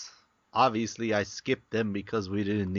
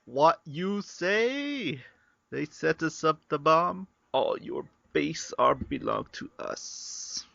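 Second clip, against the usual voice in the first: meme quote; 4 semitones higher than usual. Pretend. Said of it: "quoting Zero Wing meme".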